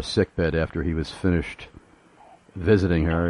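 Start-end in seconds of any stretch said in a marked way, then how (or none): none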